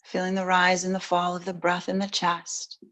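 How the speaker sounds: soft, unhurried settling-in voice; quiet, even meditation cue; guided meditation. Real, not acted. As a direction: gently guide them into stillness, long pauses between phrases.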